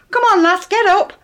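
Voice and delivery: high, loud cheerful bark; hearty call. Retold or imitated. Eric hauling Edith up off his lap, hearty and loud. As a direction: boom it out, pleased with himself.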